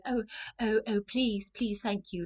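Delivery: flustered, stumbling English politeness; anxious over-politeness. Retold or imitated. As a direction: trip over your polite words, a bit loudly. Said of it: "I'm so anxious".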